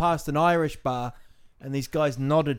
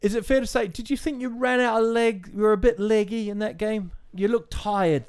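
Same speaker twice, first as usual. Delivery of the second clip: higher, brisk TV pundit questioning a player; sports interviewer; 5 semitones higher than usual. Pretend. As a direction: play the post-match presenter grilling the player. Mock post-match TV interviewer.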